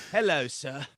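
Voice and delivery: lightly put-on British accent for a little boy; a playful, lightly done British boy's voice; hint of a British accent, Dickensian kid. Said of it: "a little kid with a limp and a British accent".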